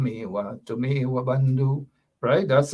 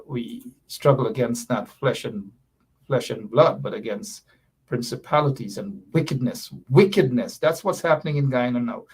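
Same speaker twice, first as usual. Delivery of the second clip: light preaching. Acted. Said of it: "We can do a little preaching".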